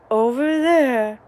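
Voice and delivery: slow, emphatic mock call; imitating dad raising his voice. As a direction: drag it out impatiently. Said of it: "raising your voice, saying the phrase".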